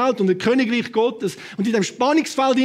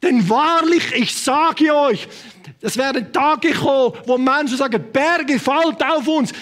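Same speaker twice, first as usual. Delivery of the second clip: solemn scripture proclamation; 3 semitones higher, slower than usual. Acted. Preacher quoting Jesus to the congregation, solemn declaiming. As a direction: declaim each phrase slowly with solemn weight.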